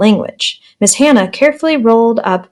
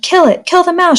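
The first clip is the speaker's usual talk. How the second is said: high excited shout, much higher; 9 semitones higher than usual. A narrator's reading. Michael urges the class against the mouse, shouting. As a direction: egg the class on. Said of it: "shouted Michael".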